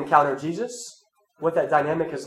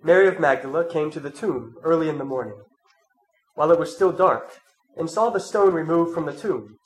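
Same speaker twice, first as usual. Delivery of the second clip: measured, solemn Gospel reading; scripture reading; 4 dB louder than usual. Acted. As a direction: read the Gospel to the congregation. Reads the Gospel aloud.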